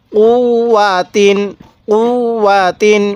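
"উ, ওয়া তিন" recited with a held double w; measured teacher's recitation of "উ, ওয়া তিন"; doubled consonant. Shown as a demonstration. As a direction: lean on the w joining "উ" to "ওয়া", then "তিন". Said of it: "এই হরফগুলোর মধ্যে টান দিব না".

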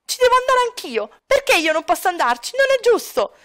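put-on high, whining boy protesting to his dad; whining child. Son protesting he can go too, high whining child. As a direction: whine it, stretching the complaint. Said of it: "Sta dicendo".

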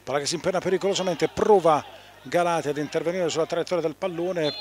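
fast, loud, rising play-by-play; quick excited call of a dangerous ball; breathless italian goal commentary. Real, not acted. Sudden danger in front of goal.

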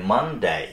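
"মানডে" in two measured beats, with DAY stretched; drawn-out Monday. Shown as a demonstration. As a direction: draw out the falling end of "মানডে". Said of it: "একটু টান দিতে হবে". ("মানডে"-র শেষে টান)

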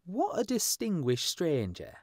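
high, slow, twittering sparrow voices; chirruping sparrows. A narrator's reading. Sparrows gossip to each other about the stranger, high and twittering. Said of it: "the sparrows chirruped".

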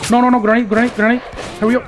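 high urgent yell of warning; grenade warning yell. Real, not acted. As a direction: shout it as a frantic warning. Grenade thrown in game fight.

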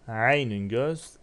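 Aynün drawn out clearly, then göz; slow Arabic demo. Shown as a demonstration. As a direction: model Aynün slowly before translating it. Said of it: "elif lam eklersen el aynu".

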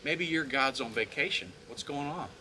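lightly teasing taunt; casual, mock-helpful jibe. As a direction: needle them with feigned concern. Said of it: "He starts to mock them".

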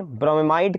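ब्रोमेमाइड said with an extra "me" before "maid"; longer pronunciation. Shown as a demonstration. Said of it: "जो pronunciation करना हो कर लो". (ब्रोमेमाइड में बीच का "मे" बोलते हुए)

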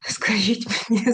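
playful whispered aside, unvoiced. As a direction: whisper it like a secret to the audience. Teasing aside to audience. (грайливий шепіт)

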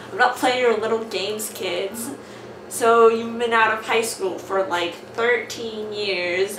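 loud, hammed-up character voices; switching accents clumsily. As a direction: swap voices for each character. Reading comic aloud with character voices.

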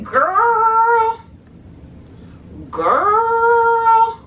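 put-on high sassy drawn-out "girl"; sassy girlfriend voice. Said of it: "I'm thinking".

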